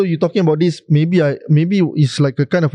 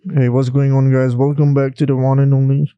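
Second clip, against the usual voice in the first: sexy voice; 2 semitones lower than usual. Shown as a demonstration. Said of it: "what's your sexy voice?".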